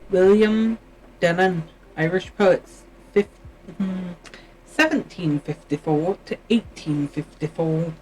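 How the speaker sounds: slipping lightly into an English accent; a hint of an unintended English accent. Real, not acted. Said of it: "Why did I suddenly become English?".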